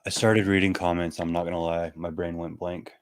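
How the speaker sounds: drowsy, foggy and slowed; sedated. Real, not acted. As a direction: talk through a medicated haze. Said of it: "highly sedated right now".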